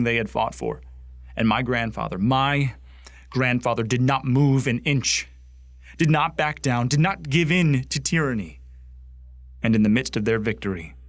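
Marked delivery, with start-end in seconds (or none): 2.2-8.6 raised, emphatic pride; proud defiance. Acted. Grandson boasting of his grandfather standing firm, proudly emphatic. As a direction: build up with forceful conviction.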